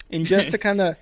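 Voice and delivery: talking through burps; words pushed out on a burp. Real, not acted. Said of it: "sorry, I'm talking through burps".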